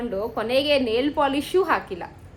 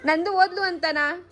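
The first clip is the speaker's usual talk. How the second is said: higher, drawn-out consoling questions; coaxing concern; 5 semitones higher, slower than usual. Real, not acted. Asking a tearful aunt about Nandu leaving, coaxing concern. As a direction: gently probe with a raised, stretched voice.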